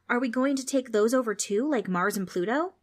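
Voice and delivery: put-on a small boy thinking bigger; lightly voiced eager child; eager little boy. Preston keeps asking.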